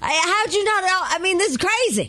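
high-pitched mock disbelief; incredulous excitement. Co-host teasing producer over missed stories, incredulous. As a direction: act astonished he missed it. Teases producer for missing the news.

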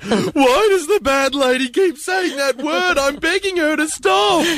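high-pitched mock child voice; hammed-up childish begging; pleading child. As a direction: plead like an upset little kid. Voices a child begging, mocking co-host.

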